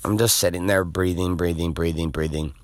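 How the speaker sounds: low, softening, settled voice; calming down. Retold or imitated. Surfer breathing on his board, calm. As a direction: let the voice sink with each repeated word.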